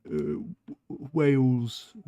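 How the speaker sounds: a halting whispered W, then Wales punched out loud in a mock Welsh accent; stumble, then blurt out Wales in a mock Welsh accent. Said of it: "laughing at their accent".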